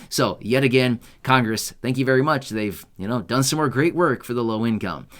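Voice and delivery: mock thanks, delivered deadpan; sarcastic. Real, not acted. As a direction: thank them as if they had really helped, meaning the opposite. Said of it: "obviously I'm being sarcastic".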